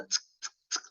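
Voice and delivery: short "tsk" clicks; imitated treble ticks. Shown as a demonstration. Teacher showing students what treble is, crisp tsk sounds. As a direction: mimic the ticking top end of a speaker. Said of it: "all the high pitch".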